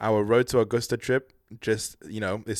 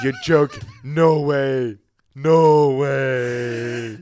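loud, higher, laughing disbelief; excited disbelief; 4 semitones higher, 9 dB louder, much slower than usual. Real, not acted. Friend learns of the twins, loud laughing disbelief. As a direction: shout it out in happy shock.

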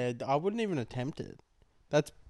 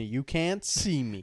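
John Cena catchphrase; slower than usual. Retold or imitated. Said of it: "John Cena".

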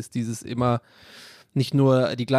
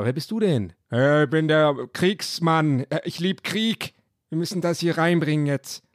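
character voice. Acted. Lightly voiced soldier answering who he is. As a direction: play the soldier who loves war. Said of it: "ich hab immer die gleiche Stimme für alle".

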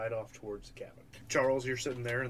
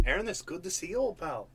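higher-pitched, shaky attempt at Irish; attempted Irish accent; 5 semitones higher than usual. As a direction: play an old pal with a loose Irish lilt. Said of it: "He's supposed to be Irish".

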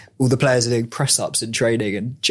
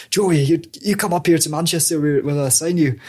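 lightly voiced football manager, pitched higher; a hint of a manager impression, higher; Alex Ferguson; 4 semitones higher than usual. Prankster phoning a player as his manager, lightly imitated higher voice. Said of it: "pretend to be Alex Ferguson".

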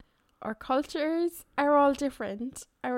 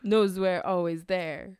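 Christopher Walken voice; 5 semitones lower, slower than usual. Retold or imitated. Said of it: "Is this Christopher Walken still".

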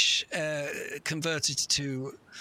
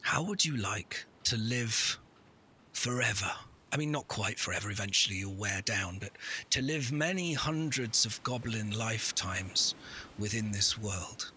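lower, ominous hooded wizard; 6 semitones lower than usual. Acted. Wizard offers eternal life.

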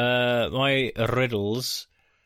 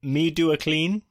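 caveman voice; 7 semitones higher than usual. Acted. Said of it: "like a caveman".

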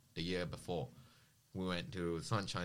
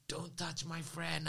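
retold angry warning, high and slow; flipping out; 10 semitones higher, slower than usual. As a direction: draw it out high, defending a friend. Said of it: "I flipped it".

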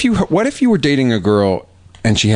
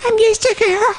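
put-on much higher, teary falsetto girl voice; frightened girl; 12 semitones higher, much slower than usual. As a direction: whimper like a scared little girl.

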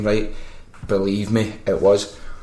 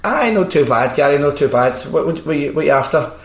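higher-pitched chatty phone voice; imitated woman; 4 semitones higher than usual. Woman chatting to supposed Gary, imitated in higher voice. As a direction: put on a woman's friendly reply. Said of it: "And she went".

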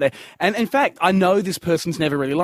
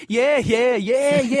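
high, absent-minded string of yeahs; impression of a bored listener, pitched up; switched-off listener; 7 semitones higher, much slower than usual. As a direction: nod along while tuning out. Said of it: "people switch off and go".

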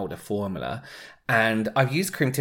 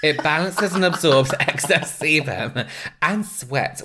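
laughing; 7 semitones higher, 6 dB louder, slower than usual. Real, not acted. Laughing while reading claims.

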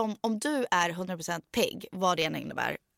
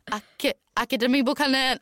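a false start, then rushed out and a bit louder; rushed stumble; 4 semitones higher, 4 dB louder than usual. Retold or imitated. Retelling the bookshop clerk scene, rushing out the name. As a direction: blurt it quickly after stumbling. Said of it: "få ut det snabbt".

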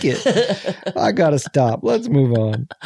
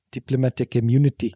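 South African accent; 5 semitones lower, faster than usual. Shown as a demonstration. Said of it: "South African accent carried on".

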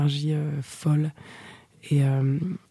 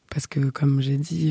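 whisper; slower than usual. Real, not acted. Whispering her story into the mic. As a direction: breathe the words into the mic.

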